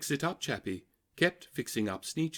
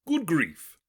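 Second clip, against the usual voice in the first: loud, higher exasperated groan; 6 semitones higher, 6 dB louder than usual. A narrator's reading. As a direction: groan it out in disgust. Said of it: "groaned the ones who had stars".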